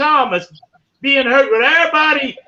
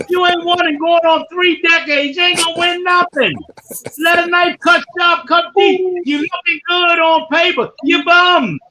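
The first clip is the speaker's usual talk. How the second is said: heated rant; 4 semitones higher than usual. Real, not acted. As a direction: go after the rival fans at full volume. Ranting at Cowboys fans.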